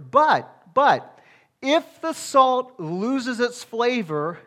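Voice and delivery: loud high But, but, then slow; fervent warning from the pulpit; urgent warning. Real, not acted. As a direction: stop them short, then slow down. Preacher raising a warning.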